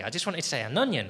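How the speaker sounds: "an onion" run together quickly. Shown as a demonstration. Comic wanting it normal, quick run-together "an onion". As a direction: say "an onion" naturally as one easy phrase. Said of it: "wanted to say it quickly".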